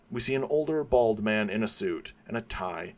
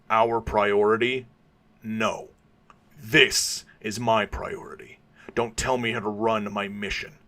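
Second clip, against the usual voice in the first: snapping. Acted. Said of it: "Batman snaps at him".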